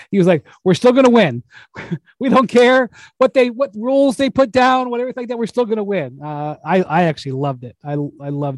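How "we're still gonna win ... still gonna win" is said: higher-pitched mock-defiant boast, laugh breaking in; Joe Lacob impression. Retelling the owner's press conference boast, high-pitched bravado. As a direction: crow it high and brash. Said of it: "full on Joe Lacob".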